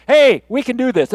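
loud, high pep-talk call; rallying boast. Acted. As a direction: fire up the team. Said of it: "A boast is".

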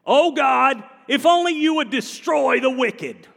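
loud pleading cry. Acted. Preacher voicing David, crying out to God.

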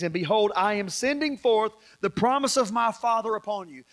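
measured, projected Bible reading; scripture reading. Real, not acted. Preacher reading Jesus's commission to his witnesses, scripture reading. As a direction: proclaim the passage to the room. Reads scripture aloud to congregation.

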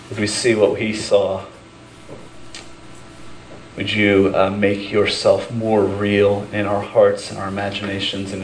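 prayer. Real, not acted. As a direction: pray aloud unhurriedly, phrase by phrase. Leads an opening prayer.

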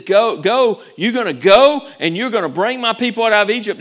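loud firm command to go; preacher voicing God sending Moses. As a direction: order him out the door.

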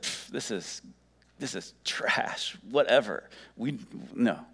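dismissive scoff with a puff of air; mildly scornful brush-off; mocking. Athenians rejecting the message, mock dismissive. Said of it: "They mocked".

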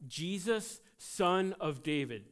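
calling out. Acted. Blind man calling out to Jesus.

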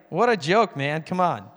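retold exasperated put-down; mock dismissal. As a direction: imitate someone brushing it off. Retells the man's dismissal before hanging up.

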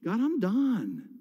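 slow, spent prayer of giving up; weary plea to God. Retold or imitated. Pastor retelling his cry to God, slow and weary. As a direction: let each word drag out, worn down and done. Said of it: "crying out to God".

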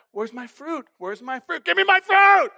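put-on little girl working up to a tantrum; toddler demanding. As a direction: mumble it twice, then yell the last line like a tantrum. Toddler demanding fruit in store.

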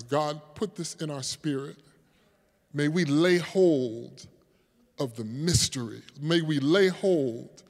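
hushed pulpit prayer. Real, not acted. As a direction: plead quietly with God, pausing between phrases. Prays aloud to God.

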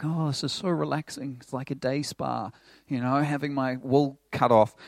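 blissed-out relaxed sheep. Pretend. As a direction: savour it like a spa day. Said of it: "The sheep's just lying there like".

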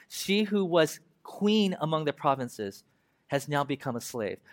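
slow, weighty reading of the lament; mournful Bible reading; solemn scripture reading. Acted. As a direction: read each line slowly, letting it sink in.

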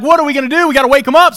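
high, loud mock panic; hammed-up panicked shout; panicked disciples. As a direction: yell it like men about to sink.

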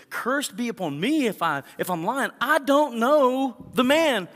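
loud, high protest building to a shout; vehement denial. Acted. Peter denying Jesus a third time, vehement shout.

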